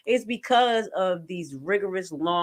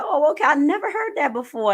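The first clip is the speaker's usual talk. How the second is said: retold surprise; 9 semitones higher, 4 dB louder than usual. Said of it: "I was like".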